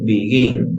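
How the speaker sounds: "Begin" leaning on GIN; stress on last syllable. Shown as a demonstration. Teacher repeating the example for students, "Begin" stressed on GIN. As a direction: put the force on the end syllable of "Begin". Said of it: "la mayor fuerza de voz en la última".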